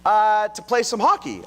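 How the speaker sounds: high, loud call up the stairs; yelling up the stairs. Retold or imitated. Son calling up the stairs to dad, loud high yell. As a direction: shout it up to dad upstairs. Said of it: "he yelled up the stairs".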